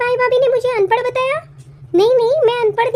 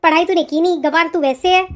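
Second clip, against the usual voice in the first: a hint of a sneering elder sister-in-law, a little lower; scornful sister-in-law; 4 semitones lower than usual. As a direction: looks down on the bride. Sister-in-law scolds bride.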